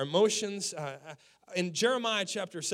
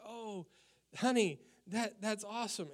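dad's warm praise; 4 semitones higher than usual. Retold or imitated. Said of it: "And he was like".

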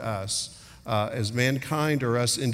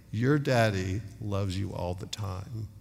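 soft, low fatherly reassurance; tender reassurance; 5 semitones lower, 5 dB quieter than usual. Retold or imitated. Father breaking the awkward silence with his children, tenderly reassuring. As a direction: gently settle the child's doubt, voice lowered.

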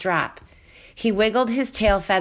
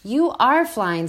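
approving; 5 semitones higher, 4 dB louder than usual. Acted. Robot praises slowly.

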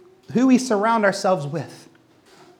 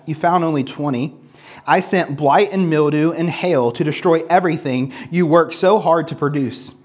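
measured, lower-pitched Bible reading; scripture reading; 5 semitones lower than usual. Acted. Preacher reads God's rebuke to the congregation, measured scripture reading. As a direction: read the verses evenly and solemnly, phrase by phrase.

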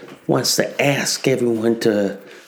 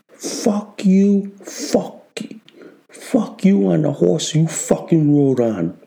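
high furious curse; 5 semitones higher than usual. Acted. Cursing at the left.

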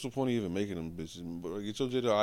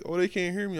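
mimicking mom; 9 semitones higher than usual.

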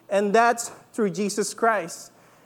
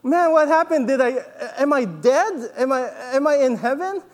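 mock panic; 2 semitones higher than usual. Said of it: "he really freaked out".

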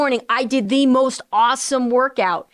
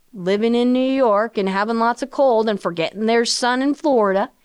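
a touch of Southern accent slipping in. Real, not acted. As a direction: let a Southern twang creep in. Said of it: "that Southern accent all of a sudden came up".

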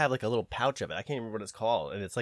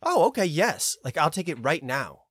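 mock eager; 4 semitones higher than usual. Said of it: "And you go".

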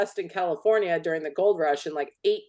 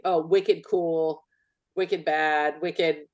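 mock Boston; much slower than usual. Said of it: "each region has their".

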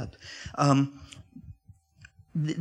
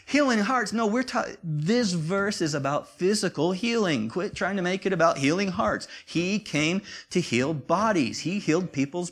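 high, loud, exasperated yell; retold yell at the radio; 7 semitones higher, 4 dB louder than usual. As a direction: shout back at the radio in protest. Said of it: "I yelled at the radio".

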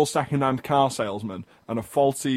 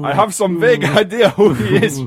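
Kony voice; 5 semitones higher, 8 dB louder than usual. Acted. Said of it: "can I stop doing the Kony voice".

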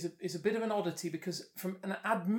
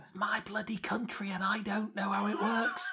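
whispered; 2 semitones higher than usual. Real, not acted. Rueful aside under breath.

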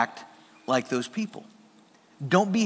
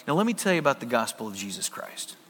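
lower, softer, suddenly solemn pitch; mock preachy seriousness; 6 semitones lower, 7 dB quieter, faster than usual. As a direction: parody a pushy evangelist going solemn. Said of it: "And they're like".

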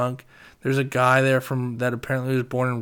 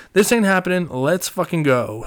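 put-on raised, urgent voice pulling a drunk friend out; urgent hurry-up; 5 semitones higher, 5 dB louder than usual. Friend hauling a drunk buddy away, urgent and raised. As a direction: snap him out of there, no messing.

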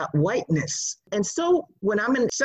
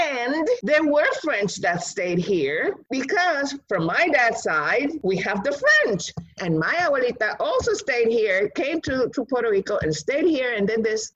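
put-on eager child; 4 semitones higher than usual. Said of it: "And then I said".

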